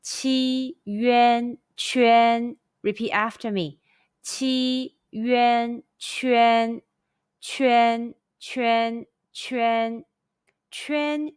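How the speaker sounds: "Qi, yuan, quan" on a high level tone; "quan" repeated on a high first tone. Shown as a demonstration. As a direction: hold "quan" high and flat each time. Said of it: "high-pitched first tone all together".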